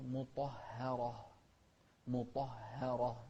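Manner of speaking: مطهرة with a heavy ط, light ه, heavy ر; careful recital of مطهرة, thickening ط and ر but not ه; heavy-light-heavy articulation. Shown as a demonstration. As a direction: say مطهرة with dark ط and ر around a thin ه. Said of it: "نفخم الطاء ونرقق الهاء ونفخم مرة ثانية الراء".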